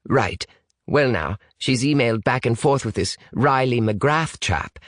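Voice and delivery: lightly voiced Brit, reserved; British young man. British boy reads emails to his partner, reserved.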